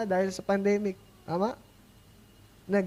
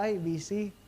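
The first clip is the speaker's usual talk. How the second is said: mock busy excuse; 3 dB quieter, slower than usual. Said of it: "pag may mga in-invite tayo na".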